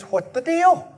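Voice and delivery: put-on high, indignant outburst of the older brother; a hint of a sulky brother's protest; mock angry. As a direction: bristle like a sulking older son. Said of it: "He's angry".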